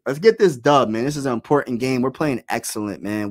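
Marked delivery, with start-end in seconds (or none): 0.1-0.9 loud, pumped-up hype; rally the fans loudly; hyped shout. Real, not acted. Hyping the team's win.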